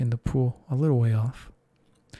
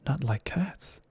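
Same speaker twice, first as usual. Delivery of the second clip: shrill passionate; 4 dB quieter, slower than usual. Acted. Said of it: "in a shrill, passionate voice".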